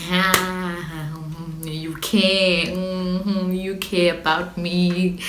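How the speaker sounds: slow, pleased sing-song tease; teasing boyfriend. Retold or imitated. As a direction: grin through it like the smug boyfriend. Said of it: "biggest grin on his face is like".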